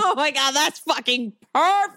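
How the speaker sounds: high, thrilled rush of approval; real excitement. Real, not acted. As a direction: gush over a brilliant idea. Thrilled by the casting idea.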